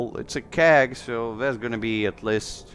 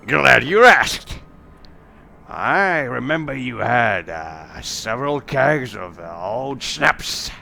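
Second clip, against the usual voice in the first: innkeeper's sales patter. Acted. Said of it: "And she's just like".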